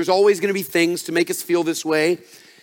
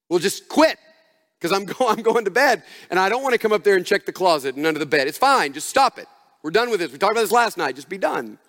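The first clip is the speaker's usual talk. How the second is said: exasperated parent. Retold or imitated. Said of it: "To which I wanna respond".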